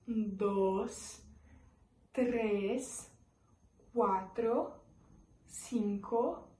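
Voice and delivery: teacher counting aloud for students; Spanish counting. Shown as a demonstration. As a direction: count slowly in clear Spanish. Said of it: "vamos contar de zero a dez em espanhol".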